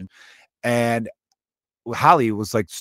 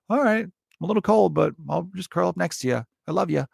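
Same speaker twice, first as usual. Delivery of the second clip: devoted dog; 7 semitones higher than usual. Acted. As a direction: play a sweetly loyal dog, pitched up. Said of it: "he was just like".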